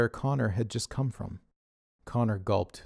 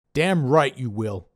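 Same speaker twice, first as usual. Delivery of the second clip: louder, gruff-voiced boss scolding; Dave's scolding voice; 4 semitones higher, 6 dB louder, slower than usual. A narrator's reading. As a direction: play Dave the bossy leader, chewing him out. Dave scolds, pointing finger.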